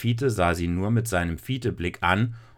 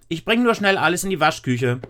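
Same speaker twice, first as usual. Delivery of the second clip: put-on high, louder nervous child; hurried girl; 9 semitones higher, 4 dB louder than usual. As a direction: rush it out like a child hiding something, much higher. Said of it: "Aber Lisa sagte nur schnell".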